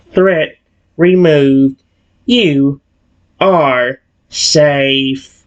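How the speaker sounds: very slow, creepy, eerily calm robot voice. Narrating a story, voicing the Guardian robot after removing a threat: slow, creepy. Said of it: "Why did it say that so slowly and creepily?".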